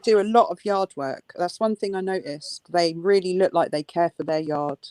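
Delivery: mock-admiring, dry sarcasm; sarcastic. Real, not acted. Co-host mocking a couple's neglected yard, sarcastic. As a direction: praise it as if you mean the opposite. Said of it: "I'm being sarcastic".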